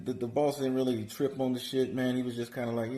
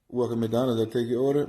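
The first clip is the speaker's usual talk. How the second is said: same lazy mumble, pushed a bit louder; mumbled drive-thru greeting, louder; 5 dB louder than usual. Retold or imitated. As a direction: still mumbling though trying harder. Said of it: "speak up a bit".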